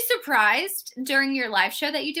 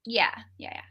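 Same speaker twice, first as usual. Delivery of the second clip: whisper. Real, not acted. Whispered reply.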